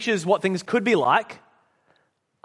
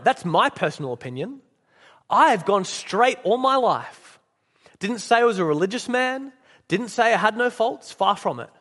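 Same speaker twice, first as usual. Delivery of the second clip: lightly acted indignant, self-justifying ghost; self-righteous ghost. Ghost defends his life to the murderer, mildly indignant. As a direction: protest your decency with punched key words.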